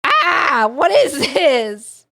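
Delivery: high, loud outcry, dragged out; exasperated shout. Real, not acted. Streamer reacting to a disturbing poem, exasperated shout. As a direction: yell it in disbelief. Frustrated outburst at the game.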